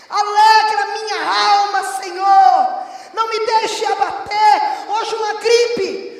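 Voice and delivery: high, loud revival shout; full-force preaching. Real, not acted. Preacher urging the church to find joy in the Lord, full-force shout. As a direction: preach it as a booming cry of faith.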